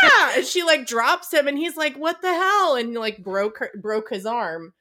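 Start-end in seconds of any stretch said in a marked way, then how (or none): 0.0-0.3 very high, loud shriek; startled scream. Retold or imitated. Louisa startled by nutcracker. 2.0-2.7 high, loud outraged squawk; dropped nutcracker protesting, high and loud; indignant yelp. Retold or imitated.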